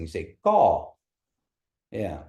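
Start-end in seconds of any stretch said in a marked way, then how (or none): 0.4-0.9 gaw said with the tone going up; rising gaw. Shown as a demonstration. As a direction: lift the pitch through gaw. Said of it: "you're going up and you're rising".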